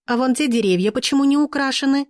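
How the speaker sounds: a picky client finding fault; high, whiny displeasure; displeased question. A narrator's reading. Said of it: "недовольно спросила".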